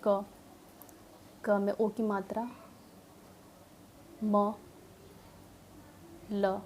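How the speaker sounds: spelling out each letter slowly. Shown as a demonstration. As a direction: sound it out like a struggling child. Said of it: "तो वो शुरू करेगा ऐसे". (अक्षर-अक्षर जोड़कर पढ़ना)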